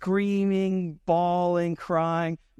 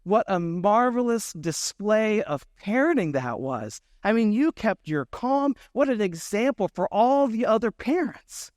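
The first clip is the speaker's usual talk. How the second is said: put-on higher, admiring older woman; grandmotherly praise; 5 semitones higher than usual. Older woman praising a dad at checkout, admiring. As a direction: gush like a sweet grandmother. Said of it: "a grandmother type".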